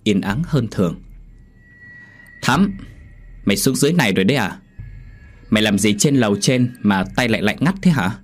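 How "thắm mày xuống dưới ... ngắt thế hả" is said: calling out. Acted. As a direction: call the name, then quick questions. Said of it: "cất âm thanh gọi tên vang lên".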